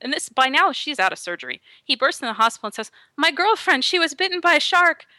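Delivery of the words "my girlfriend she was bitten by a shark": higher-pitched imitation of a panicked boyfriend; acted-out desperate begging; frantic pleading. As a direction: retell it as an urgent, raised plea. Frantic boyfriend bursts into hospital.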